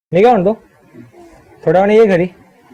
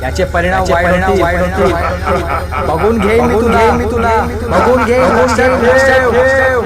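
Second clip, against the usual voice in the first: angry threat; slower than usual. Acted. Nephew threatens uncle.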